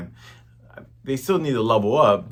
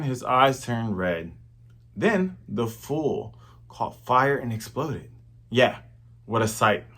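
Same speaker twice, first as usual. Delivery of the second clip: cook telling a story. Retold or imitated. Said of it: "now the cooks start talking".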